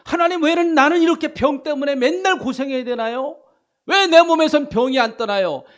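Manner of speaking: loud, high, pained plea about sickness; questioning God. Shown as a demonstration. Preacher voicing a sick believer crying out to God, loud. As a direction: demand an answer, near shouting. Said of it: "하나님 앞에 질문을 하세요".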